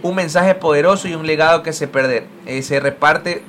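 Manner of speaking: measured reading of a written tribute; tribute read aloud. Acted. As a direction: read out a fan's thank-you message. Reads Olympic account's post aloud.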